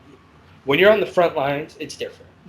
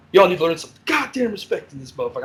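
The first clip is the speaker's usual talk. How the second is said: angry scolding; 5 semitones higher, 3 dB louder than usual. Retold or imitated. Angry officer scolding ward.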